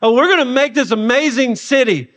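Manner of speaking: hammed-up bragging voice; mock boasting. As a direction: puff it up like proud children bragging. Mocking the builders' boasting.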